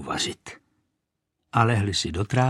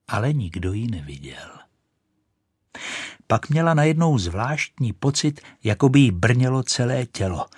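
ordinary delivery, nothing marked

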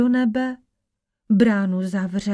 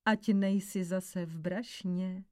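much softer, with a quiet smile; smiling warning; 4 semitones lower, 10 dB quieter than usual. A narrator's reading. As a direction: gently warn in a low-key voice. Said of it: "povídá Pán Ježíš a usmál se". (tiché varování s úsměvem)

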